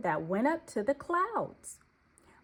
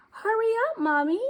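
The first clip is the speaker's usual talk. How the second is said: high, louder call to mommy; 12 semitones higher, 6 dB louder, faster than usual. Acted. Little deer calling back to his mommy, high and eager. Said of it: "he called".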